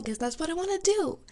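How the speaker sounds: tearful, pitch climbing; real crying. Real, not acted. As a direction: confess it through real tears. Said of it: "Again, sorry for crying".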